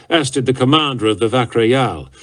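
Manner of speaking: ordinary delivery, nothing marked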